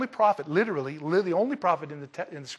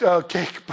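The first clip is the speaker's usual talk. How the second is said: "cake" punched louder; stress on cake; 6 dB louder than usual. Shown as a demonstration. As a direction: hit the word "cake" hard. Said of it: "I emphasize cake".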